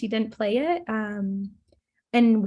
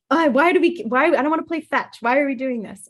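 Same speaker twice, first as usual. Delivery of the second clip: imitated husband grumbling, raised and louder; loud, higher-pitched mock protest; begrudging; 4 semitones higher, 6 dB louder than usual. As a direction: complain like a fed-up husband. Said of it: "begrudgingly is like".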